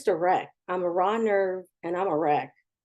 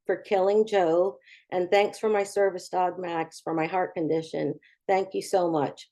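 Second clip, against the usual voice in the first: grumpy gratitude. Retold or imitated. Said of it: "I really wrote my grumpy gratitude list".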